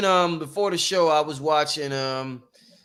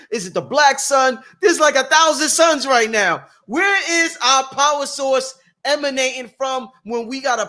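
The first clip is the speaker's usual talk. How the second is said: excited questioning; 4 semitones higher than usual. Real, not acted. Host firing questions at guests, rising excitement. Host riffing on power sources.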